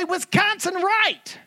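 "Wisconsin" said high, with a voiced z, like a local. Shown as a demonstration. "Wisconsin" said high with a z, as a local. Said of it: "I don't say it like I used to".

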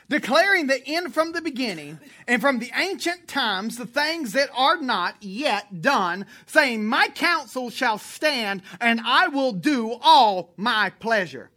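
loud, slow, weighty Bible reading; solemn scripture reading. Acted. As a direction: lay out each word of the verse slowly. Reads scripture aloud solemnly.

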